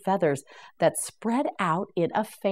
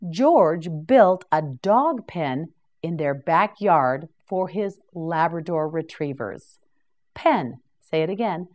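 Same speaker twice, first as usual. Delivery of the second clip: ordinary delivery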